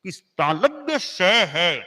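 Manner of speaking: तालव्य स slow and deliberate; palatal sibilant. Shown as a demonstration. Teacher naming the palatal sibilant. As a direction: speak तालव्य स slowly like a teacher. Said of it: "उच्चारण भी उसके अनुरूप हो".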